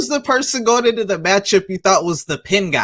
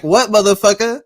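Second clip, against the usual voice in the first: louder mock snarl of Okada, cussing in Japanese; 3 semitones higher, 5 dB louder than usual. Host imitates Okada cursing at a downed opponent, louder mock snarl. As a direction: growl it like Okada talking Japanese. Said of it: "In Japanese".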